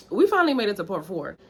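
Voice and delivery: breathless, panting between words; talking while still catching breath. Real, not acted. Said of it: "I don't know why I'm so out of breath".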